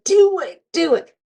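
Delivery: high-pitched cheering on; retold urging. Nurses urging scared patient on the treadmill, cheering. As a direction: egg someone on in a high voice.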